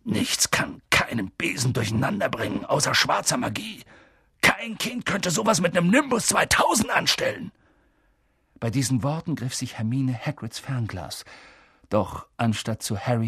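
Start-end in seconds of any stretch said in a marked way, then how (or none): 0.0-7.5 shaky voice. Acted. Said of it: "mit zitternder Stimme".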